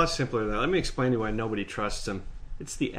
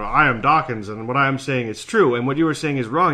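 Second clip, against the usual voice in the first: mock Dawkins; 3 dB louder than usual. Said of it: "he will say".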